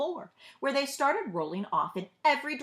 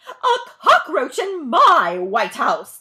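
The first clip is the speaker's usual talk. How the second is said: slow, loud, high wailing outcry; First Lady crying out; 6 semitones higher, 13 dB louder, slower than usual. A narrator's reading. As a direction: wail in dismay, stretching it out. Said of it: "cried the First Lady".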